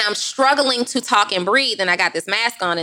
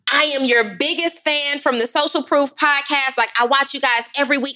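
gushing fan; 5 semitones higher than usual. Retold or imitated. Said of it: "And he's like".

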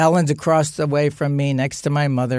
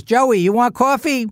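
higher, louder sing-song offer; sweet mother; 7 semitones higher, 4 dB louder than usual. Retold or imitated. Mother calling Joe in for coffee after the fight, a higher, bright sing-song offer. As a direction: chirp it like nothing happened.

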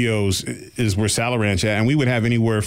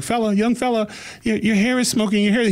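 lightly imitated Scottish granny accent, pitched higher; a sweet old Scottish lady warning him, higher; mock Scottish accent; 10 semitones higher than usual. Old Scottish lady warns young man his hair smokes, light Scottish accent. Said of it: "she had a really strong Scottish accent".

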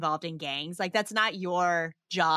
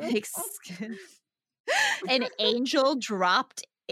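laughing disbelief; 4 semitones higher, slower than usual. Real, not acted. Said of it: "he doesn't explain it".

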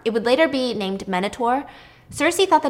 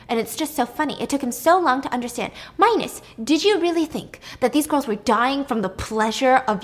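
mocking; 4 semitones higher, 4 dB louder than usual. Pasiphae mocking Minos in front of Circe, gleefully. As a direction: savor humiliating him. Queen mocking husband before sister.

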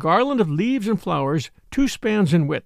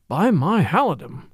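king muttering to himself. A narrator's reading. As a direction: murmur it to yourself like a king. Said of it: "said King Richard to himself".

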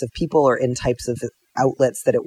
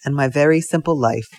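simple French farmer, slow and earnest; badly faked French accent, words drawn out; mock French accent; slower than usual. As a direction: play a humble farmer with a hazy French accent. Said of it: "things with a French accent".

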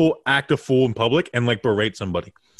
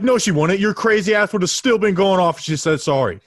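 retold telling off; 6 semitones higher, 3 dB louder than usual. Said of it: "I was like".

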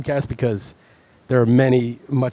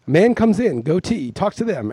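mock describer voice; 4 semitones higher than usual. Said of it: "Then it'll say".

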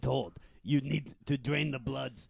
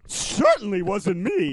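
slow put-on voice; 5 semitones higher, 6 dB louder than usual. Denial in put-on voice.

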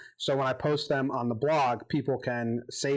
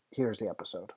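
muffled, gargly bad microphone; underwater audio; 3 semitones lower than usual. Real, not acted. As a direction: voice sounding like underwater. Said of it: "It sounds like I'm underwater gargling".

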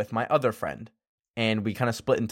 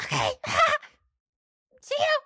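laughing goodbye; faster than usual. Retold or imitated. Awkwardly leaving the door.

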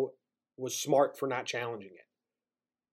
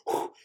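gasping exhale. Real, not acted. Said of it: "I did that in one breath".

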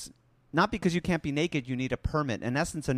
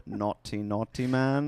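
tut-tut like a nanny; mock scolding; 2 semitones lower, slower than usual. Mock scolding after the professor.

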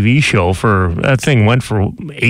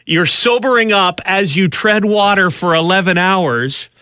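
high, building dramatic retelling; dramatic storytelling; 8 semitones higher than usual. Acted. Host spins the rescue story for his co-host, dramatic and excited. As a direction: paint the rescue scene with rising excitement.

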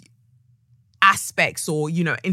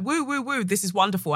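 retold cheering; 4 dB quieter than usual. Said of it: "and everyone's like".

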